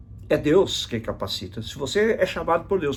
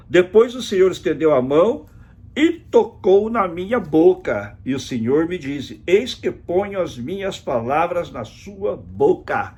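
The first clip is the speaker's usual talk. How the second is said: raised, slow, declaimed Bible verse; scripture reading; 5 semitones higher, 3 dB louder than usual. Acted. Preacher reads how God touched the prophet's mouth, proclaimed scripture reading. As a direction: proclaim the verse, stretching the key words.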